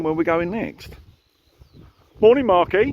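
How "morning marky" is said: calling out. Real, not acted. Calling out to friend Mark.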